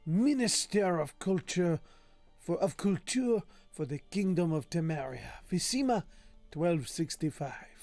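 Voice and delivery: put-on lilting, accented reading of a learned treatise; affected lecturer's voice; improvised put-on voice. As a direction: read the scholarly text in an odd invented accent. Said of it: "I have no idea what this voice is".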